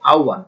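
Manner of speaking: আহ্বান as "au-wan"; correct pronunciation. Shown as a demonstration. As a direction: glide from a to u in আহ্বান, no h. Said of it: "তাহলে উচ্চারণ হচ্ছে".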